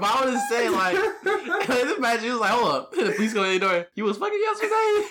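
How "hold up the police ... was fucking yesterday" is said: playing a cop bursting in; mock cop voice. Acted police raid quote.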